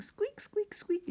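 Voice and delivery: high squeaky chorus of mice; mice squeaking. Acted. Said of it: "all the little mice are saying".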